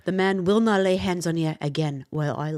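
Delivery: earnest Scottish vow; a light Scottish accent, sincere. Acted. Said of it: "our Scottish reading".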